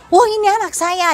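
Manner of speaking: shocked father. Retold or imitated. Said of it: "dia mulai marah".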